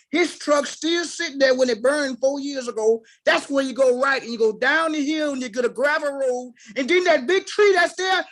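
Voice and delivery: lightly imitated country folk accent; Southern country directions. Speaker imitates white country folk giving directions, Southern accent. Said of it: "some white folks that talk".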